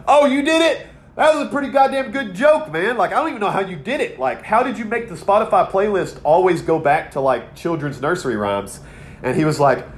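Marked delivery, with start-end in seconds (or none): 0.1-8.8 mock delight. Retelling his own amused reply.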